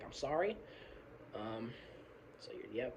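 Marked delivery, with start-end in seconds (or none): 0.0-0.6 mock apology. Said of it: "And I'm like".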